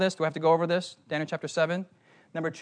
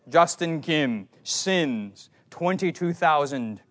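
a hint of a stern old British judge, slow; mock pronouncement from the bench, drawn out; lightly hammed-up wigged judge summoning the accused; much slower than usual. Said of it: "in my imagination, the judgment was".

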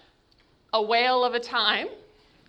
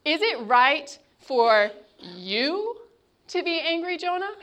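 God's gentle rebuke. Acted. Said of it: "picture the intonation in God's voice".

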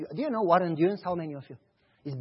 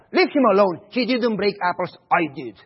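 loud defiant plea; boy shouting at the door to protect his friend, loud; 7 dB louder than usual. Retold or imitated. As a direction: burst in and defend your friend. Boy bursting in to defend friend.

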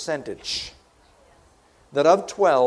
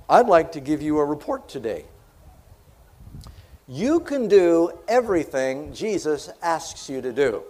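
ordinary talk

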